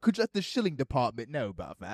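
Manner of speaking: lightly put-on British accent; half-joking attempt at British; terrible British accent. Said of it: "terrible British accent".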